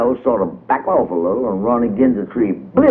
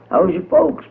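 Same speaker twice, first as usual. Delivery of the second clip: Miss Cow voice; 10 semitones higher than usual. A narrator's reading. Miss Cow asking, high voice.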